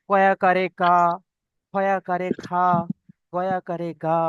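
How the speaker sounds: "কা", "খা", "গা" each ending on open aa; spelling-out drill. Shown as a demonstration. Teacher drilling zabar, "কা", "খা", "গা" sounded out with aa. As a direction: spell each letter, then land on "কা", "খা", "গা". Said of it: "এইরকম ভাবে উচ্চারণ হবে".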